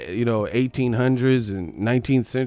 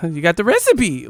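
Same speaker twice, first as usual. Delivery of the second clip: high, loud mimicking of a sleep-talking girlfriend; mock sleep-talk outburst; imitated sleep-talker; 7 semitones higher, 7 dB louder than usual. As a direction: blurt it out high like someone talking in their sleep.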